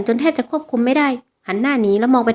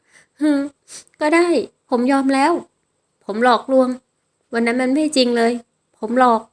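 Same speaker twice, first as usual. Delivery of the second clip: sob, then give in through tears; a mild tearful, broken admission; crying confession. Acted. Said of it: "ทั้งร้องไห้จนตัวสั่น". (สารภาพทั้งน้ำตา สะอื้นเบาๆ)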